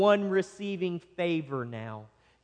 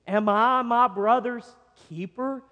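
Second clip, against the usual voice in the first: higher, mock-questioning sarcasm; sarcastic; 5 semitones higher, 3 dB louder than usual. Preacher voicing Cain talking back to God, sarcastic. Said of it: "Do you sense the sarcasm that is here".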